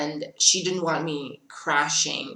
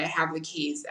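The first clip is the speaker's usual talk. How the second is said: whispered; 5 dB quieter than usual. Retold or imitated. Apologising to woken dad.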